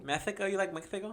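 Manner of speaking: high, rising disbelief; surprised. Real, not acted. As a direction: ask it in real surprise. Surprised at friend loving Mexico.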